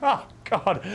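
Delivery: breathless and laughing; out of breath. Real, not acted. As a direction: gasp between words. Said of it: "Let me catch my breath".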